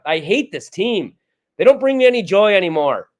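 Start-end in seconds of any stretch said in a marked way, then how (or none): 0.1-1.1 deflated. Real, not acted. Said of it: "I'm all fired up".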